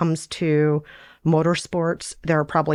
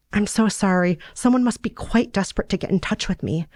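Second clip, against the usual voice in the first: put-on lightly higher, earnest young woman; a hint of a lovesick girl, pitched up; Sarah's voice; 5 semitones higher than usual. Sarah confessing her feelings to Tanner, lightly higher earnest voice.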